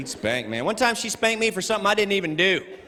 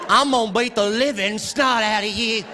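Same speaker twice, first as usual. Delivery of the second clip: higher-pitched mock maternal threat; really mad mother; 5 semitones higher than usual. Mom threatening her child, mildly hammed-up anger. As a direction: imitate an angry mom laying down a threat. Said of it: "When she was really mad".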